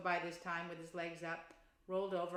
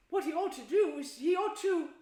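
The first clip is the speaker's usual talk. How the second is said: loud arguing; 9 semitones higher, 9 dB louder than usual. Acted. Rat argues over them.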